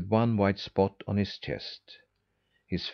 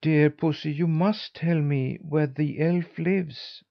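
put-on higher-pitched, insistent little boy; pleading boy; 6 semitones higher than usual. A narrator's reading. Boy begging the cat for the elf's home, pleading. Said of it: "said the boy".

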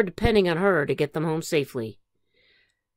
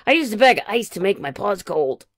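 put-on raised, bright kid shout; 4 semitones higher, 6 dB louder than usual. Young groundhog shouting his joke to everyone. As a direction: call it out proudly, louder. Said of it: "shouted Phil Junior".

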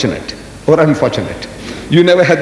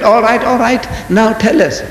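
raised-pitch mock interrogation; challenging questioner; 5 semitones higher than usual. Reverend challenges the Maulana in debate, challenging. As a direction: press him with a higher, insistent call.

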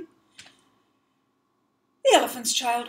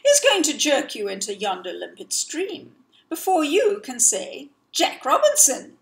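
pompous snake; 3 semitones higher, 4 dB louder than usual. Acted. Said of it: "how bi-coloured python rock snakes always talk".

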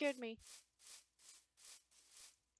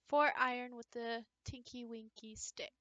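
whispering; 4 semitones lower, 5 dB quieter than usual. Real, not acted. Reading recipe in whisper.

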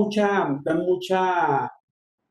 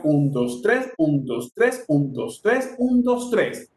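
"tres" lifted above "un, dos"; stress on TRES; slower than usual. Shown as a demonstration. Teacher counting pasillo with numbers, accent on each "tres". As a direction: count in threes, punching every "tres". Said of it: "si lo decimos con números sería".

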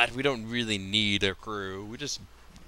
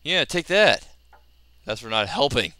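loud taunting; 4 dB louder than usual. Real, not acted. Scolding useless pirates.

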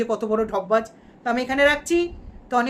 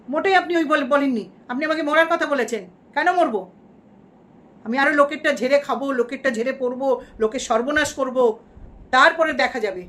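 angry outburst; 3 semitones higher, 3 dB louder than usual. Pretend. Angry at a commenter.

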